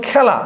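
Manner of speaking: খেলা said "khæla"; open ae vowel. Shown as a demonstration. Teacher contrasting it with the closed example, open ae. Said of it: "জফলা আকারের মতো উচ্চারণ".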